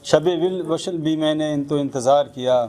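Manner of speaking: measured Urdu ghazal recital; spoken verse, each couplet falling to its refrain; poetry recitation. Acted.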